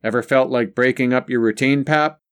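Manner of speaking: calling over the television noise. Acted. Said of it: "He raised his voice".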